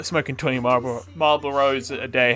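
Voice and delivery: southern voice. Pretend. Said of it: "my southern voice".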